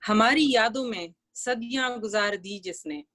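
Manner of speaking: measured, lilting verse reading; ghazal recitation. Acted. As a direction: recite the couplet for a mushaira audience.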